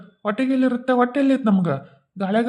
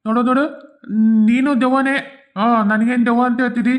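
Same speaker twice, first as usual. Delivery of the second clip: higher, louder weepy complaint; crying ghost; 4 semitones higher, 4 dB louder than usual. Acted. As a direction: whine it through tears. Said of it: "ಅಳಾಕತ್ತಾನ".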